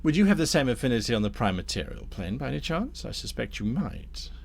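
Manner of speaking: courteous tempter with swooping emphasis; lightly voiced scheming Damnifer. Damnifer turns Thorn from friends to foliage, lightly voiced courteous schemer. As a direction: steer them smoothly towards business. Game master plays Damnifer.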